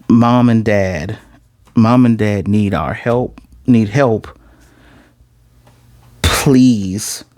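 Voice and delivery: slow, lightly acted plea; mild imitation of begging; retold tearful begging. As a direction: draw it out like a pleading child, understated. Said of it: "she's basically crying, beg-, damn near begging".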